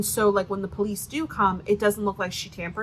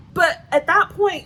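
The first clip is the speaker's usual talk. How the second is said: emphatic lead-in; 8 semitones higher, 8 dB louder, slower than usual. Real, not acted. Storyteller emphasis.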